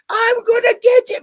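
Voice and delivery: high, mock-angry threat; pissed off threat. Imitating the queen in the arena, mock-angry high threat. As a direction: growl it like a cartoon brute. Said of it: "all pissed off".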